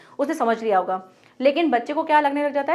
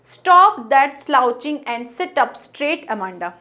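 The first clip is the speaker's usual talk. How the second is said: slow poem reading; much slower than usual. Shown as a demonstration. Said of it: "इस तरह से कहा जा रहा है".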